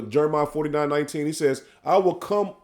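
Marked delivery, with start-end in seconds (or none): 1.8-2.5 measured, drawn-out scripture reading; solemn sermon reading; slow preaching scripture read. Acted. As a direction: lay each phrase out slowly like a preacher.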